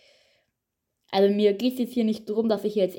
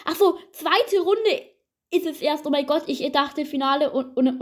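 relieved surprise; 6 semitones higher than usual. Real, not acted. Realises only round two.

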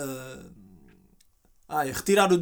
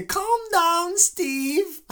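much higher, sweet quavering granny; fake old lady voice; 11 semitones higher, much slower than usual. Fake granny calming the furious scammer, high quaver. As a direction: calmly soothe the raging scammer. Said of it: "a velhota só a dizer".

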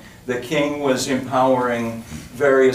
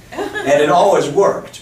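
laughing; 5 semitones higher, 6 dB louder, slower than usual. Real, not acted.

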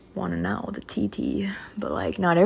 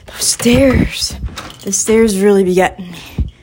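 winded; 4 dB louder than usual. Real, not acted. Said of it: "I'm winded".

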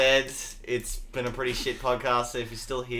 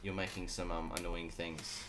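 mock annoyed; 10 semitones lower, 16 dB quieter than usual. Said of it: "I'm getting a bit annoyed".

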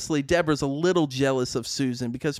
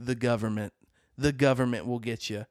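paranoid conspiracy voice; 8 semitones lower, 4 dB quieter than usual. Retold or imitated. Retelling a paranoid man's claim.

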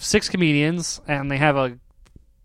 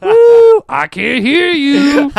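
high, loud and slow mock arena yell; hammed-up warm-up comic yelling at the audience; crowd hype yell; 10 semitones higher, 9 dB louder, much slower than usual. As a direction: scream it at the back row like a hype man. Mocking hype man yelling at crowd.

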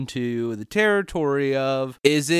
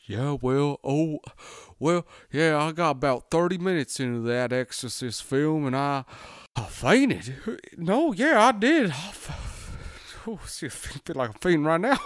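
lightly hammed-up Southern interviewee, faltering; deep-voiced lady. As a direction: imitate a faint-prone lady being interviewed. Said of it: "She had a deep voice for a lady".

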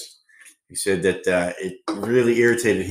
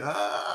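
mock offended "ah"; 7 semitones higher, 7 dB quieter than usual. Imitates kid sister's reaction.

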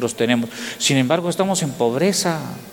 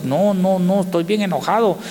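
raised, heated complaint as Klaus; mock angry Klaus; 5 semitones higher than usual. Preacher voicing his angry Danish friend, raised and heated. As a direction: play the Danish friend annoyed at the village. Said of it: "Klaus estaba bien enojado".

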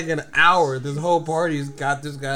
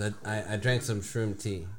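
lower, soft mock confession; sheepish confession; 5 semitones lower, 9 dB quieter than usual. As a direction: admit it sheepishly like a tripping friend. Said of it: "He goes".

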